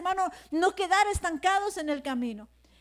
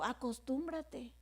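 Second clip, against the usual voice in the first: low, very quiet and slow; retold resigned advice; 4 semitones lower, 13 dB quieter, slower than usual. Pastor advising a younger pastor who cried, low and hushed. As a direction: drop right down, drawing the word out.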